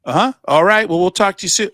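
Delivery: a hint of a chirpy AI caller; polite phone voice. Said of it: "they just keep going".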